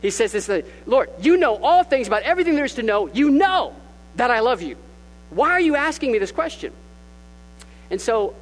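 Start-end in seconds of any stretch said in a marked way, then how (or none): 0.9-6.7 Peter insisting, higher and louder, fast; overboard, pleading protest; emphatic plea. Retold or imitated. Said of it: "he's very emphatic with it".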